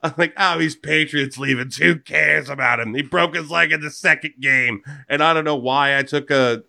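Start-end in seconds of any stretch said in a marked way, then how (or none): 0.3-4.8 a light New Jersey accent, mocking. Host mocks a Patriots cast-off, in a light New Jersey accent. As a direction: slip into a faint New Jersey accent, scornful. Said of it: "a New Jersey accent from it".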